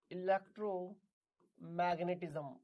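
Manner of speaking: इलेक्ट्रोमैग्नेटिज्म slowly, in two separated parts; slow dictation. Shown as a demonstration. Repeats term slowly for students.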